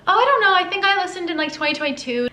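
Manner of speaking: high, rushed nervous answer; flustered squeak. Retold or imitated. Telling the singer when she started listening, flustered and high.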